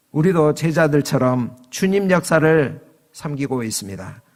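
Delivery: ordinary talk, nothing marked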